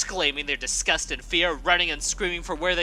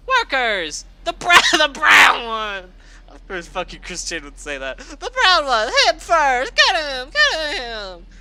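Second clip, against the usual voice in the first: loud, high barked orders; commanding shout; 9 semitones higher, 9 dB louder than usual. Acted. Rainbow Dash ordering her workers to grab the brown one, shouting. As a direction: order the guards to seize him. Villain ordering guards to attack.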